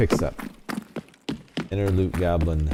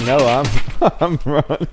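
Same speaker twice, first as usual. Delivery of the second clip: mock panicked enemy; 9 semitones higher, 9 dB louder than usual. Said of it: "He's like".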